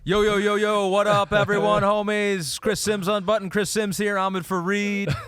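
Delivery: put-on high-energy New Jersey accent host open; Chris Sims Jersey impression. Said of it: "the Jersey accent there".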